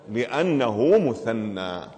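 drawn-out answer. Shown as a demonstration. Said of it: "يجب أن تقول هنا إيش؟".

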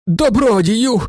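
high, loud cry of gratitude. A narrator's reading. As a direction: throw it out on your knees. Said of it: "крикнув він". (гучний вигук)

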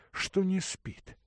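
plain reading voice

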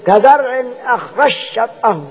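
slow recited كزرع أخرج شطأه with the جيم turned into شين; jim merged into shin. Shown as a demonstration. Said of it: "تبقى الجيم تقلب شين".

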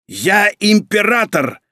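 slow, high-pitched imperious roar; angry bark. A narrator's reading. Emperor asserting his rank to his son, angry bark. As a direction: bark it out, drawing the words out. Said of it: "рявкнул его отец".

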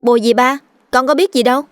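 put-on bewildered child. A narrator's reading. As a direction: sound lost and innocent. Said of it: "Mày ngơ ngác".

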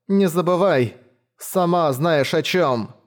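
a sick brother's veiled threat; muffled menacing plea. Acted. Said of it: "глухо и отрывисто".

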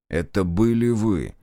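"Это были вы" said slowly, between telling and asking; "Это были вы" drawn out, half asking; half-statement, half-question. A narrator's reading. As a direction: stretch "Это были вы" as a tentative accusation. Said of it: "полуутвердительно, полувопросительно сказал Зотов".

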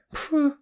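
high scoffing puff of air; dismissive snort. Acted. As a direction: snort at him in disbelief. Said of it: "фыркнул Витёк". (презрительное фырканье)

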